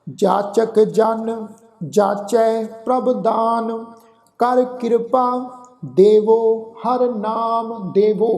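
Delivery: slow, drawn-out chanted reading of the verse; measured Gurbani path recitation; slow scripture recitation. Shown as a demonstration. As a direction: recite each line slowly and reverently. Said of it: "ਆਓ ਉਚਾਰਨ ਕਰੀਏ ਜੀ".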